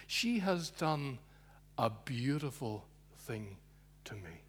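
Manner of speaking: tender praise. Acted. Jesus defending the woman, slow and tender. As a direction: savour each word gently.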